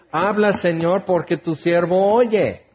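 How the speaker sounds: "Habla, Señor" asked plainly, then settling down on "oye"; humble prayer. Shown as a demonstration. Preacher showing the right prayer to the congregation, humble. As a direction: offer your ear, humbly. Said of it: "Es al revés".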